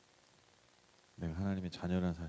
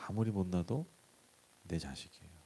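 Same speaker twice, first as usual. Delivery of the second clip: soft, lowered voice of a loving father; tender father's voice; 4 semitones lower, 5 dB quieter than usual. Acted. God speaking tenderly to an unworthy son. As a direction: say it gently, trailing quieter. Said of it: "하나님이 어떤 존재예요?".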